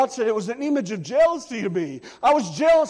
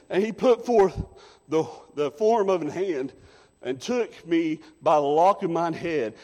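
lower, measured Bible reading; scripture reading; 3 semitones lower than usual. Acted. Preacher reads Ezekiel to the congregation, measured reading. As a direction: read the verses out steadily.

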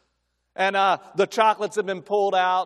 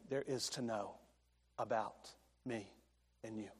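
hushed preaching; 4 semitones lower, 8 dB quieter than usual. Acted. Preacher quietly telling the congregation God knows everything, hushed. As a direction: drop to a near hush to land it.

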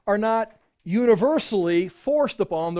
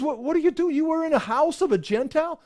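much higher, outraged disbelief; shocked accusation; 9 semitones higher than usual. Acted. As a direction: demand an explanation, scandalized. Church leaders confronting Peter.

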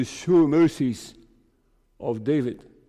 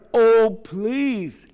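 higher-pitched heartfelt appeal; earnest pleading; 5 semitones higher, slower than usual. Shown as a demonstration. Preacher showing children an emotional appeal, earnest pleading. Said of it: "it is an earnest, emotional, from, from the heart".

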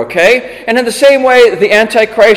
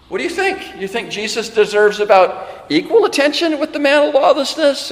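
ordinary delivery

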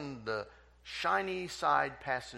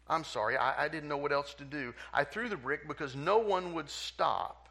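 put-on crying boy; 5 semitones higher, 5 dB louder than usual. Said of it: "The little boy is crying".

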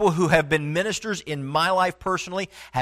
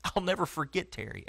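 a hushed, heartfelt "never"; hushed remembrance; 10 dB quieter than usual. Real, not acted. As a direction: say "I'll never forget Terry" quietly, like a memory that still moves you. Preacher recalling a beloved mentor.

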